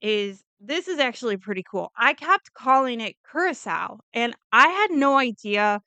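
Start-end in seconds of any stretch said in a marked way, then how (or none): 3.3-4.0 Curacao said as "CURE-uh-sow", ending like "cow"; corrected pronunciation. Shown as a demonstration. Telling viewers what she kept calling it, Curacao pronounced "CURE-uh-sow". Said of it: "It's actually pronounced Curacao".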